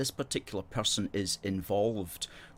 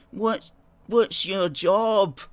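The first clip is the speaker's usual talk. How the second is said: high, loud, drawn-out jeer; mocking critics; 11 semitones higher, 9 dB louder, much slower than usual. Critics who don't like the host question him, exaggerated mocking. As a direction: mimic the haters, stretching every word. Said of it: "people who don't like us, you know, they go".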